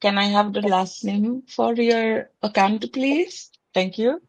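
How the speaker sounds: put-on a call-centre operator in an Indian accent. Asked for an Indian operator, answers in Indian accent. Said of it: "Indian, Indian operator".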